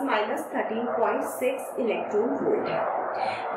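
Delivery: a quick voiceless aside while working the problem; whispered aside. Real, not acted. Teacher to class, whispering the current energy value. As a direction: whisper the number to yourself.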